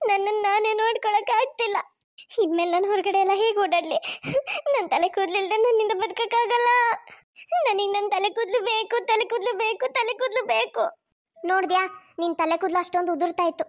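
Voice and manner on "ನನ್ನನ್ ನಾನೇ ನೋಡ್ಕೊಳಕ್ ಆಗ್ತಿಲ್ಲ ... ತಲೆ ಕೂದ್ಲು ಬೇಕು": tearful pleading lament; crying. Acted. Wife mocked by family, crying over her bald head. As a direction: whimper and beg for her hair back. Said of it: "ಅಷ್ಟೊಂದು ಅಳ್ಬೇಡ ಶ್ರುತಿ".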